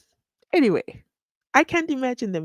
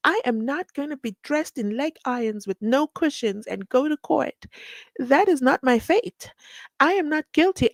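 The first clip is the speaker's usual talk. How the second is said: a lightly raised, haughty protest; indignant rich accused; 6 semitones higher than usual. Retold or imitated. Host imitating Mister Cat, mildly haughty. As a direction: play the offended big shot refusing leg irons. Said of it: "Mister Cat will be like".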